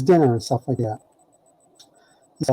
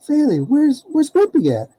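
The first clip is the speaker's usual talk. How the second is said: much higher, anxious call; 11 semitones higher than usual. Retold or imitated. Teller asks Faley after dinner, calling out high. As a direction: call out looking for the dog.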